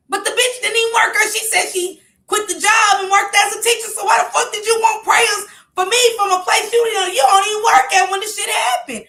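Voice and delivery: loud, high-pitched indignant questioning; exasperated rant. Real, not acted. Woman tells viewers the text makes no sense, loudly exasperated.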